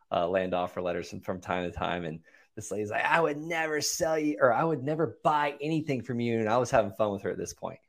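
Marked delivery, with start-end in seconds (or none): 3.0-6.4 higher-pitched mock indignation; lightly voiced outraged caller; pissed-off lady. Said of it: "'cause she was pissed".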